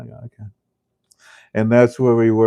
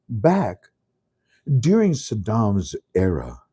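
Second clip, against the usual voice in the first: slow quoting; slower than usual. Retold or imitated. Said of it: "He says".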